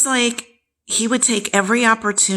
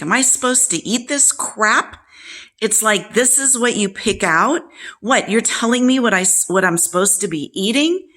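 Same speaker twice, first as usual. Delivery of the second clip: mocking her father's scornful griping, pitched higher; angry father; 4 semitones higher than usual. Father scolding his daughter over the food she brought, scornful. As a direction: sneer it like a contemptuous dad.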